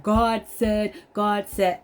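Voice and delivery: lightly mocked preacher; a hint of a preacher proclaiming. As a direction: put on a little preachy emphasis. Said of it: "trying to preach the word like".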